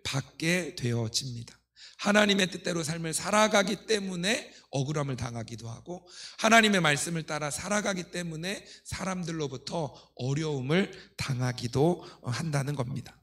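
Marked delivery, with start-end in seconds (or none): none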